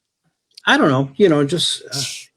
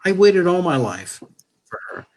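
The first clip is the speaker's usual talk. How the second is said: tender declaration; 3 semitones higher than usual. Real, not acted. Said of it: "declares love to wife".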